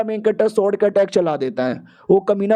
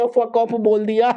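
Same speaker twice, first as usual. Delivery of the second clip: slow mocking drawl; 2 semitones higher, much slower than usual. Hero mocks the girl's words.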